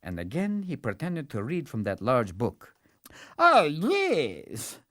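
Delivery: pompous courtier faking a decree; scheming servant. Acted. Servant pretends to read task.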